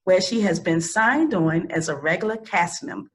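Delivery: measured read-aloud guest introduction; formal introduction. Real, not acted. Host introduces an actress to the audience, formal introduction. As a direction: present the guest with formal, deliberate phrasing.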